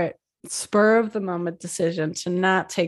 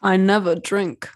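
put-on Dracula accent; 4 dB louder than usual. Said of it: "I can't do it".

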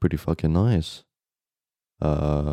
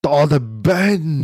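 high, loud, slow "oh" of realizing; excited recognition; 9 semitones higher, 5 dB louder, much slower than usual. Real, not acted. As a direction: stretch it out as it clicks. Sudden recognition of the bench.

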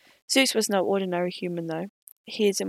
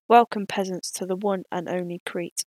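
bellowing king. Acted. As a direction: bellow it from a balcony. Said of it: "bellowed King Minos".

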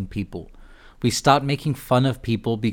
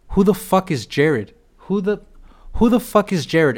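outraged disbelief; 7 semitones higher than usual. Real, not acted. Outraged at trespasser's answer.

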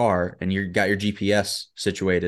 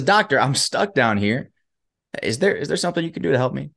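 mock shout for help; 4 semitones higher than usual. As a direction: act out calling up for help, restrained. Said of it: "he shouts up for help".

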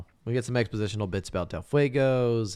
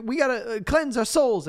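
dreamy hippie voice; 14 semitones higher, 4 dB louder than usual. Retold or imitated. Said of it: "It's like".

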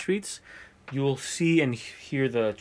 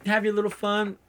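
security guard voice; 10 semitones higher than usual. Retold or imitated.

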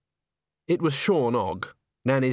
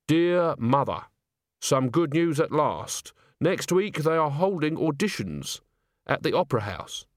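careful, lightly voiced reading of a letter; a touch of stiff, deliberate correctness; letter writer; 4 semitones higher than usual. Agnes writing home to her mum, careful letter voice.

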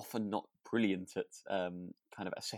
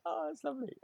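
mock delight. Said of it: "and she's like".

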